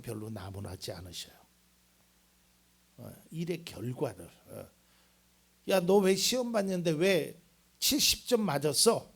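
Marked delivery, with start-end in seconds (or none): 5.7-9.1 mildly scolding question; mock scolding. Preacher imitates scolding over a test score, mildly cross. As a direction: give a mild telling-off as a question. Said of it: "이렇게 하나님은 혼내시지 않다고".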